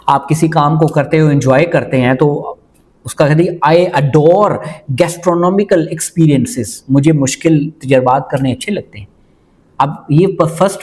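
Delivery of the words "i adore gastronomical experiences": mock posh accent. Shown as a demonstration. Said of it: "ये वो जो मुंह चबा के, एक्सेंट बना के".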